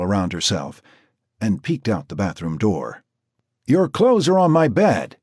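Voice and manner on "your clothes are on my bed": called out louder and higher; yelling. Acted. Jack calling from the kitchen to Marcy, loud. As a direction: call it from the next room. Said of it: "yelled Jack from the kitchen".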